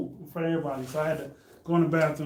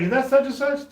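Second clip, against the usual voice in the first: mocking bully; 8 semitones higher, 4 dB louder than usual. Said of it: "He's like".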